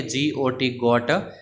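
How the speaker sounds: each letter spaced out for the class; slow spelled out. Shown as a demonstration. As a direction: slowly spell जी ओ टी, then say गोट. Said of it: "जी ओ टी गोट अपने बोलते हैं". (जी ओ टी गोट को धीरे-धीरे अक्षर-अक्षर बोलना)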